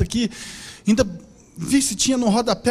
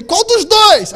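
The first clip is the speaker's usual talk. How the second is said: asking question; 10 semitones higher, 9 dB louder, much slower than usual. Retold or imitated. Question he should have asked.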